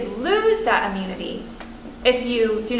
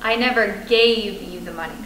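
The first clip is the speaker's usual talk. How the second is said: "gave" lifted and leaned on; "gave" stressed, the other words kept light. Shown as a demonstration. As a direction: press "gave" to deny it was a gift. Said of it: "it wasn't through a gift".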